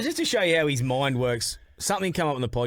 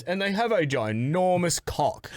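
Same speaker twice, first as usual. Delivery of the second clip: David Attenborough impression; 2 semitones higher, slower than usual. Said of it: "it was like David Attenborough".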